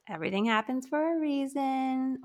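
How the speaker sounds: mocking platitude. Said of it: "some things that some people will say".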